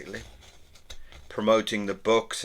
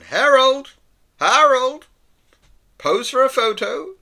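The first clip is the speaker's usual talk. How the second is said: much higher, loud calling-out voice; high shout; 11 dB louder, slower than usual. Acted. Somebody shouting at the walking dog for a photo, high shout. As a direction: call out to get his attention from afar. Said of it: "somebody is shouting".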